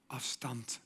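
a single whispered word. Acted. Preacher whispering the word distance. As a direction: drop to a bare whisper.

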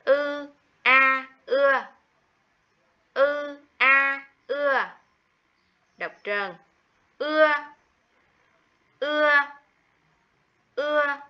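u, a, ua spelled out high and loud, one sound at a time; spelling aloud. Shown as a demonstration. Teacher spells out ua for first graders, high and clear. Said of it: "Đánh vần".

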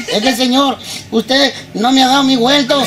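mock whining little boy, mid-cry; lightly imitated blubbering child; tearful child. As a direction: complain through put-on sobs. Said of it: "por qué lloras ahora".

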